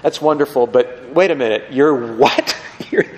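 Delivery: baffled listener. Acted. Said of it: "you're sitting there thinking".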